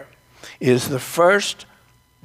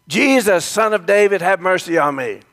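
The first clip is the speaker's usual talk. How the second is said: raised, calling-out plea; mock shout; 4 semitones higher than usual. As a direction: call out across a crowd for help. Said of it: "He starts shouting".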